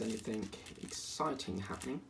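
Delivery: dryly sarcastic about something exciting. Real, not acted. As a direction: feign excitement with dry sarcasm. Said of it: "I say that so sarcastically".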